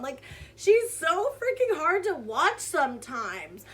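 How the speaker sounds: usual speaking voice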